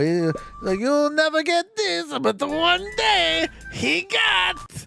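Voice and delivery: high, drawn-out Borat impression; put-on Borat voice, slow and high. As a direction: stretch the words gleefully high as Borat. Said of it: "Your Borat voice sounds like Watto".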